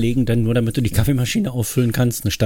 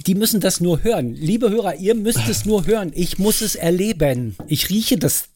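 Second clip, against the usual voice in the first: exasperated; 6 semitones higher than usual. Real, not acted. Complains dramatically to the listeners.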